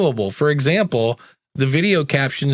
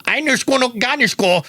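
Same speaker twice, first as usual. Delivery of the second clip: mock German; 10 semitones higher than usual. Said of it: "to a non-English speaking person".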